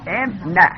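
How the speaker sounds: ام نه sounded out as "em-na"; kasra on the hamza. Shown as a demonstration. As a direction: open ام نه on short e, then a. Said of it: "همزه رو چه حرکتی بدیم". (ام نه با کسرهٔ همزه)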